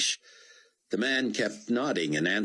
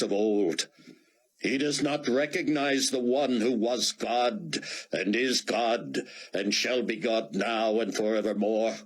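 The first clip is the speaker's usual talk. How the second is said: preacher proclaiming; 5 semitones higher than usual. Acted. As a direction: proclaim it to the crowd like a prophet. Preacher addresses the crowd.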